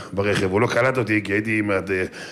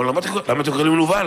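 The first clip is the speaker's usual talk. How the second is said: fast, raised and indignant; angry retort; 5 semitones higher, faster than usual. Retold or imitated. Young scholar snaps back at the accuser, indignant and fast. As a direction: fire it back fast, offended.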